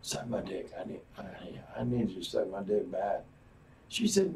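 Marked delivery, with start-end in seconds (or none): 0.0-3.2 Bill Clinton. Retold or imitated. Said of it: "He went down and said".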